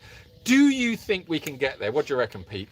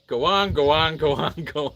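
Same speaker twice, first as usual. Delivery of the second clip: lightly voiced Irish sitcom catchphrase; Father Ted. Streamer finally attempting a promised sitcom bit, light Irish impression. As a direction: repeat it like a comic Irish catchphrase. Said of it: "gonna do a Father Ted".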